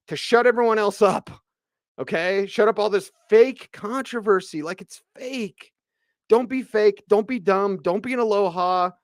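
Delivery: scolding fans over fake controversy; angry rant. Real, not acted. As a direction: tell them off, exasperated. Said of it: "it's pissing me off".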